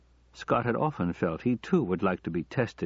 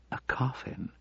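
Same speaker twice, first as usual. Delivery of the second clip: hushed, higher echo of disbelief; soft, appalled question; shocked; 5 semitones higher, 6 dB quieter than usual. A narrator's reading. Wife hearing the kidnappers' threat, shocked.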